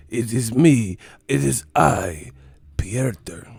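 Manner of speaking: loud, slow pompous self-announcement; lightly hammed-up medieval noble; mock Old English. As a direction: declare your name like a knight. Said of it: "talking that old English".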